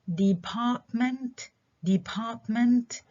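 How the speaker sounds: department stressed on PART; stress second syllable. Shown as a demonstration. Teacher modelling for students, department with PART stressed. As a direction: say department deliberately, leaning on PART. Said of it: "الستريس على المقطع الثاني".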